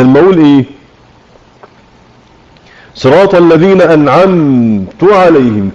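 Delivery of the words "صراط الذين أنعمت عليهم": slow, measured tajwid recitation; slow Quran recitation. Shown as a demonstration. Teacher reciting the verse to students, slow tajwid. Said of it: "عرف القراءة أنها".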